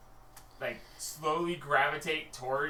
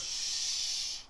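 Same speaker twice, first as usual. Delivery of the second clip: hushed guard; 5 semitones higher, 6 dB quieter, slower than usual. Acted. Guard hushes his partner.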